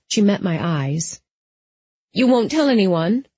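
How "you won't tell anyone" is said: anxious. A narrator's reading. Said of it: "Suddenly anxious".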